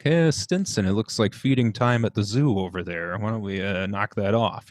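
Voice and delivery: a light, half-hearted imitation of the dry band director; lightly voiced teacher teasing a yawning student; understated dry teasing rebuke, barely changed from own voice; Mister Liga impression. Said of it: "I can't do a very good Mister League impersonation".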